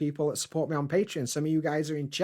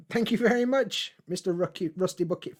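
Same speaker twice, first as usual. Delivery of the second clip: excited thanks; 5 semitones higher than usual. Real, not acted. Thanking a viewer for donation.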